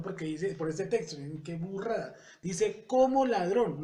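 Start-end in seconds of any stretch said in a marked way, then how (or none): 2.9-3.8 "como" punched high and loud; raised, insistent emphasis on the word "como"; stress on como. Shown as a demonstration. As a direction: hit "como" hard, then let "ladrón" follow. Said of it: "no es que sea ladrón".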